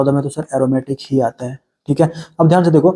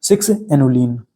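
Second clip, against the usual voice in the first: सिक्स एनुलिन said slowly, each part spelled out; teacher slowly repeating सिक्स एनुलिन for students to memorise; slow, careful naming; 2 semitones lower, slower than usual. Shown as a demonstration. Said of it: "दूसरा नाम हो गया".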